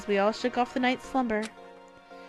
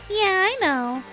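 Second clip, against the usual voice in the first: high, loud, hyped announcer voice; fighting game announcer; 9 semitones higher, 6 dB louder than usual. Acted. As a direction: boom it out like a show host. Announcer voice in story.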